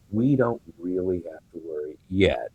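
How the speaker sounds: muffled, hand covering the microphone; finger over the mic. Real, not acted. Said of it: "You're covering the mic again".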